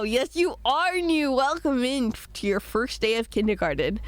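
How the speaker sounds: a hint of a sing-song teacher; lightly playing a kindergarten teacher. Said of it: "Sounds like I'm a kindergarten teacher".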